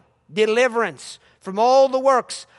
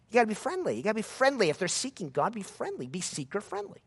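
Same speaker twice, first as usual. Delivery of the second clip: soft, mock-sweet slogan; mocking seeker-friendly; 7 dB quieter, faster than usual. Preacher mocking seeker-friendly churches, softly mocking. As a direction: parody the soft church line. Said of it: "heard that term".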